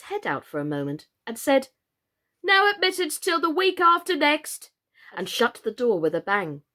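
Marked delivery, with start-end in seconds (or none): 2.4-4.7 high, loud beaked creature. Acted. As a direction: squawk it out from behind the door.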